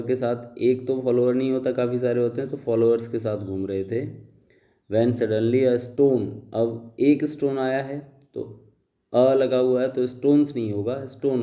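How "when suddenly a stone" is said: slow, deliberate read-aloud of the paragraph; slow dictation reading. Shown as a demonstration. Teacher reading the paragraph aloud to students, slow and deliberate. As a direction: read each word out slowly for the class.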